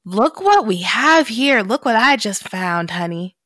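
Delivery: a lightly voiced sleazy stranger gloating over his find; creepy intruder. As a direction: savour finding someone hiding, like a predator. Menacing stranger finds her bunker.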